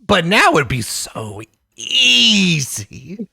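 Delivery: high, strained comic menace; hammed-up threat, stretched out at the end; mock threatening guard. Acted armed guard threatening at close range.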